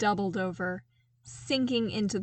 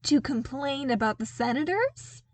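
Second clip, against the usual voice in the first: higher and louder, alarm rising; dawning horror; 6 semitones higher, 6 dB louder than usual. A narrator's reading. Soldier realises his commander went to Vader, rising horror. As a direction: sound the dread creeping in. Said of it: "with a look of slowly dawning horror".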